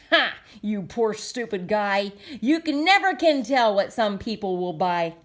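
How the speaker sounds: gloating, lightly mocking; mocking laugh. Once-ler taunts the Lorax after a sale, light mocking gloat. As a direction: laugh in his face. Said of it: "I laughed at the Lorax".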